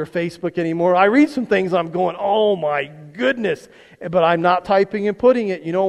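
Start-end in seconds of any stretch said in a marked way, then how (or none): 2.2-3.7 drawn-out "oh my goodness" reaction; slow, mock-appalled exclamation; retold dismay. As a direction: stretch it out slowly, as if reacting to a post. Acting out his reaction to posts.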